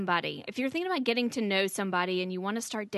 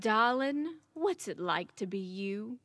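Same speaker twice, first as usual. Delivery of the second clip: put-on Southern accent, softer on the question; 3 dB quieter, slower than usual. Daughter repeating her dad's question, Southern accent. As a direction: softly imitate a Southern dad. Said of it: "in his very Southern accent".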